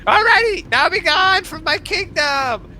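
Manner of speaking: high, loud, slow banishing proclamation; royal dismissal. Acted. Kobold king banishing the party, loud proclamation. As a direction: send them off grandly.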